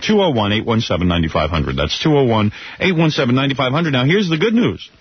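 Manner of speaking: upbeat live radio ad read. Acted. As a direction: sell it like a DJ ad. Live read of car auction ad.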